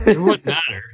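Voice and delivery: put-on loud, twangy redneck accent. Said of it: "That was a terrible redneck accent".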